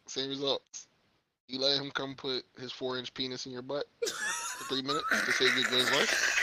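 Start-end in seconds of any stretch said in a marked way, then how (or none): 1.5-6.4 asking through laughter, slow; laughing question. Real, not acted.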